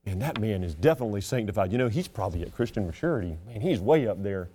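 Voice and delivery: awed churchgoer. Retold or imitated. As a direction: mimic a self-doubting believer in awe. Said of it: "you think".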